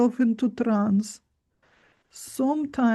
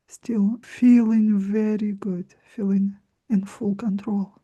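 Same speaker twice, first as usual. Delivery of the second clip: mesmerizing. Acted. Guided meditation closing.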